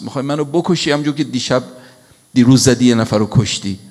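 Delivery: the follower shouting at Moses in the story, loud and accusing; retold desperate cry. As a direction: cry out to Moses, half acted. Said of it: "فریاد زد که".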